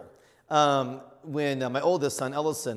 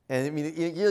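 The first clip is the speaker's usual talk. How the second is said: normal talking voice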